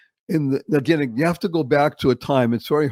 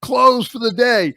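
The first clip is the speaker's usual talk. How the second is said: radio announcer; 3 semitones higher, slower than usual. Retold or imitated. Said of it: "they'd say this one".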